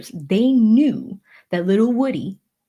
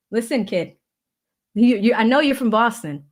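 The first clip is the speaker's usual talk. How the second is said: put-on Boston accent; 2 semitones higher than usual. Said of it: "he brings out the Boston accent in me".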